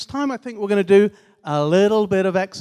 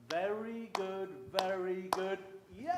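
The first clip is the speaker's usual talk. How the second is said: cheer; 15 dB quieter than usual. Shown as a demonstration. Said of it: "And then we'll go".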